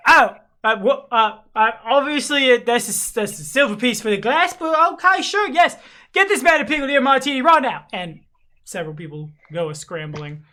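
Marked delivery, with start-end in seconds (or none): 0.1-7.8 high, loud, flustered landlady; indignant tavern owner. Acted. Tavern owner confronting a man who threw a glass, indignant. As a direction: burst out in loud, high-pitched outrage, then bluster. Game master acts startled, angry tavern owner.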